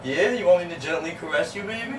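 low, soft, suggestive question; soft, deep come-on; seductive teasing. Acted. Man flirting about caressing.

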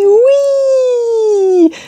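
oui said high and bright as French "wi". Shown as a demonstration. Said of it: "how you say yes in French".

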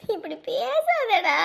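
very slow, choked pleading; mother begging her son not to talk so; tearful plea. Acted. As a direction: beg him through tears.

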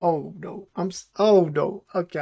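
ordinary talk

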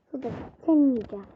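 quick playful threat. Real, not acted. Gamer taunting the rival cell, fast playful threat. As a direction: rattle it off fast.

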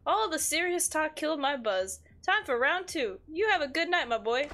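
amateur voice acting of an old-timey villager; old-timey villain. Streamer voicing a game villager's advice, old-timey villain. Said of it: "does kinda sound like an old-timey villain".

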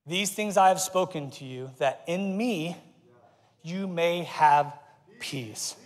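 soft, measured and dropping away; quiet, reverent reading with pauses; hushed scripture reading. Real, not acted. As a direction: let it settle gently to the last word. Reads comforting scripture to congregation.

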